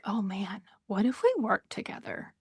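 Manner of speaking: a hushed, hopeful aside to yourself; hushed inner thought. Retold or imitated. To herself, wondering about working with the host, hushed. Imagined thought while reaching out.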